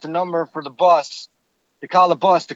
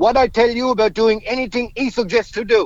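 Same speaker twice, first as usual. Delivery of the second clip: put-on heavy, laid-on thick French accent, pitched up; 5 semitones higher than usual. Speaker quotes a woman pointing at him and addressing an ex-NHL player, thick French accent. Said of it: "she says in a very thick French accent".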